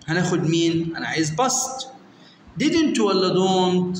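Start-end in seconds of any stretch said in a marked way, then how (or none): 2.6-4.0 slow choice. Shown as a demonstration. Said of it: "offers the choice".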